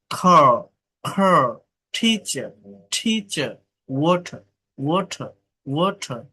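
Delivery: "টিচার" and "ওয়াটার" ending in a vowel, no r; silent final R. Shown as a demonstration. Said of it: "সেটা উচ্চারণ হয় না".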